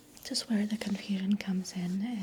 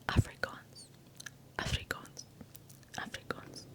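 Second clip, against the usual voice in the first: ear to ear repeated whisper; 6 dB quieter than usual. Acted. Repeated word fading.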